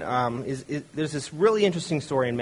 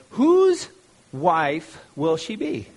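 a hammed-up sneering questioner; mocking trap question, squeaked then drawn out; mock squeaky skeptic; 4 dB louder, much slower than usual. Sadducees' mocking trick question.

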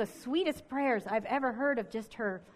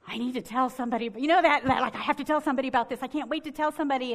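eager rush; 3 semitones higher, 4 dB louder, much faster than usual. Retold or imitated. Eager new believer bursting to share.

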